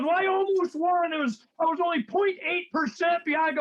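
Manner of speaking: mock candidate. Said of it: "He goes".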